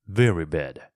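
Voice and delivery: low, grave reply; seriously. A narrator's reading. Young Englishman gravely answers the worried mother. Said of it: "he answered seriously".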